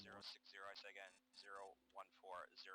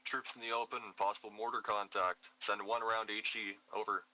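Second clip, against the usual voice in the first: calm radio call for fire; 17 dB louder than usual. Acted.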